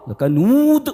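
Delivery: drawn-out mock recitation; mock imam dragging the vowel; imitating bad reciter. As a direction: stretch لکنود out slowly, mimicking a poor reciter. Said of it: "قرآن بہت خراب پڑھتے تھے".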